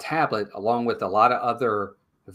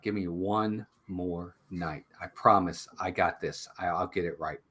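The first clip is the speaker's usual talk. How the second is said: lower, softer plea; subdued pleading; 6 semitones lower, 6 dB quieter than usual. Retold or imitated. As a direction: quietly imitate an employee asking for another chance. Fired employee pleads with boss.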